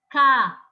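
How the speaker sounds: caderno in separate syllables, DER loud; stress on penultimate syllable. Shown as a demonstration. Teacher gives another example of the penultimate, der stressed in caderno. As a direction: break up caderno and punch der. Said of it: "na penúltima sílaba".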